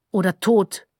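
ordinary delivery, nothing marked

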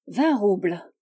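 cool, level, self-possessed offer; unruffled bargainer naming his figure; imperturbable aplomb. A narrator's reading. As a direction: state the price with unshakeable assurance. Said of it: "avec un aplomb imperturbable".

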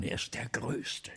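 slow hushed awe; awed whisper; reverent whisper. Acted. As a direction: whisper it like a secret. Praising the great actor.

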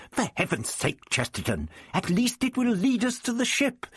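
high, exasperated shout; impatient shout. A narrator's reading. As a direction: snap it out impatiently. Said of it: "The Doctor shouted impatiently".

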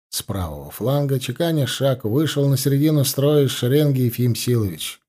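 ordinary delivery, nothing marked

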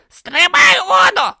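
high, loud yell. A narrator's reading. Om yelling at Brutha over the storm. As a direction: shout the order over the storm. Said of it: "заволав Ом".

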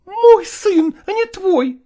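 put-on a wife snapping back for her child; defiant mother. Mother defending her son against her husband, high and defiant.

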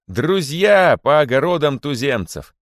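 high, loud, slow address to the crowd; orator's shout. A narrator's reading. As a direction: proclaim it like a rally speaker. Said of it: "кричала мартышка". (ораторский клич)

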